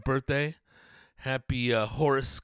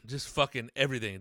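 normal talking voice

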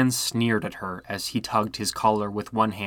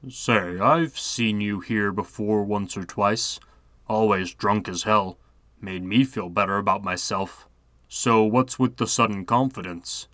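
suspicious. Acted. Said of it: "She narrowed her eyes at him".

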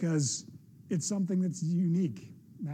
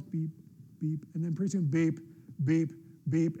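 slow alarm beeps; 3 semitones lower than usual. Retold or imitated. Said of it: "a slow beep".

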